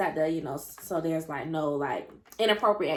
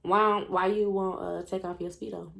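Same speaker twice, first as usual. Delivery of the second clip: slow teasing question; slower than usual. Retold or imitated. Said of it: "So I'm like".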